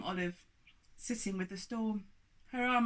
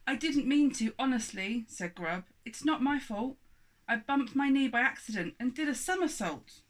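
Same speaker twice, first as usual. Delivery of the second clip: put-on pleading boy; 5 semitones higher, 5 dB louder than usual. Grub pleads his innocence.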